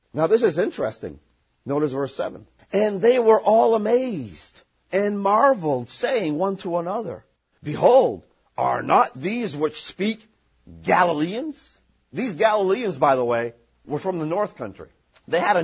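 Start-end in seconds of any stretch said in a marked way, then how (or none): 2.7-11.8 scripture reading. Acted. Reads scripture aloud.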